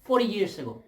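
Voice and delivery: high, sneering mock complaint; mocking whine. Vlogger mocking complainers in a high sneering whine. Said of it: "complaining and saying".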